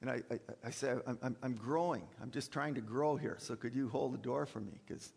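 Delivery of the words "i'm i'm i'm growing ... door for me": sarcastic. Acted. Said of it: "I'm being sarcastic".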